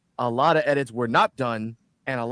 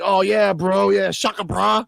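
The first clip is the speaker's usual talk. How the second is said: surfer bro imitation; 5 semitones higher, 4 dB louder, slower than usual. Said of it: "I'm paraphrasing".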